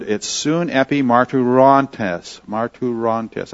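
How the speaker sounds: "sun epi marturantes" sounded out slowly, part by part; halting Greek pronunciation. Shown as a demonstration. Teacher attempting a transliterated Greek word, slow and halting. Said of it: "I'm not saying that right".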